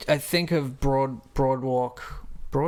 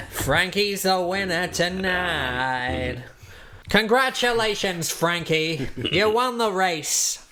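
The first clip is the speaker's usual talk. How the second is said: mock announcer; 3 semitones higher, slower than usual.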